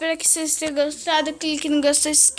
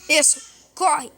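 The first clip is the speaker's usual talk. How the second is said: panicking gamer; 2 semitones higher, 3 dB louder, much slower than usual. Real, not acted. Fleeing in game.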